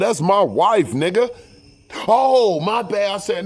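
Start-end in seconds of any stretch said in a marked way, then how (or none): 0.0-1.3 loud, high territorial warning; retold angry challenge, high and forceful; angry confrontation. Confronts man talking to his wife. 2.1-3.1 high, loud drawn "oh" of backing off; imitated hasty apology, high-pitched; startled apology. Other man apologizes when confronted.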